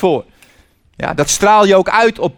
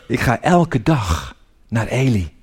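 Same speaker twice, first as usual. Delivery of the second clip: slow, lower, with pauses between phrases; slow, deliberate; 5 semitones lower, slower than usual. Acted. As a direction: spell it out slowly, phrase by phrase. Deliberate first take, then repeated quicker. (langzaam en nadrukkelijk)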